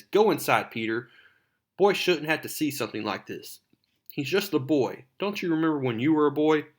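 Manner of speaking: protective scolding. Retold or imitated. Aunt May defends Peter to investigator.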